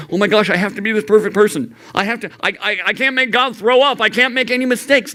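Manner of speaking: quick, high, fretful panic; anxious worrying. Retold or imitated. Anxious teen fearing God's disgust, quick and fretful. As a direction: rattle it off like a nervous kid. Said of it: "give you this anxiety like".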